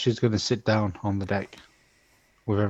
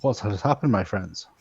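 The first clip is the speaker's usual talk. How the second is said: Itachi's normal voice; 4 dB quieter than usual. Acted. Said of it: "switches back to his normal voice".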